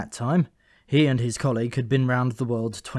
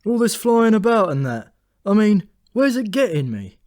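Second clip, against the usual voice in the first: much higher, louder, a complaining bird; fed-up raven Memory; 10 semitones higher, 8 dB louder than usual. Acted. Memory grumbling to Thought about his life, in a high, loud raven voice. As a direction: moan about the job.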